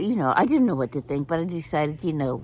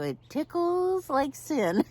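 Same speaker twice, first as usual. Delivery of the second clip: giggly complaint; 11 semitones higher, slower than usual. Retold or imitated. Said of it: "And I go".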